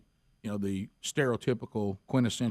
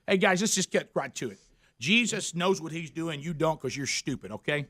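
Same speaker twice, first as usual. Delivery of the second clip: blunt preacher impression; 5 semitones higher than usual. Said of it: "Steve's just so".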